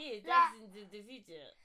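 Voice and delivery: fumbled Russian accent; attempted Russian accent. Shown as a demonstration. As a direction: try the Russian accent, faltering. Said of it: "Accents are really hard".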